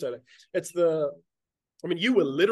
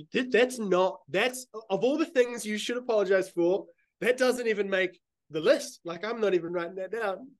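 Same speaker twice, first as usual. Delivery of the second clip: incredulous; 4 semitones higher, slower than usual. Retold or imitated. Retells disbelief at needless apology.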